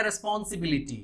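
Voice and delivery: रिस्पॉन्सिबिलिटी with every syllable full, Indian school style; school pronunciation. Shown as a demonstration. Teacher recalling how schools teach it, syllable by syllable. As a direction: spell out each vowel of रिस्पॉन्सिबिलिटी evenly. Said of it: "इसे पढ़ाया गया".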